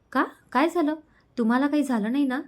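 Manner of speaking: startled worried questions on the phone; alarmed worry. Acted. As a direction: ask in a startled rush of worry.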